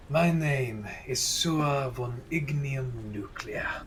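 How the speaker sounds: slow, breathy whispered introduction. Acted. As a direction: hush it out slowly, like a secret. In-character name, whispered and slow.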